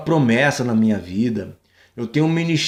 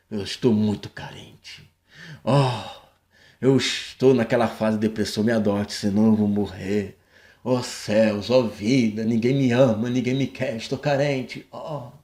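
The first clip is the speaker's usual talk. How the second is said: put-on drunk crying; 4 semitones lower, 4 dB quieter than usual. Mocking needy man, drunk crying guess.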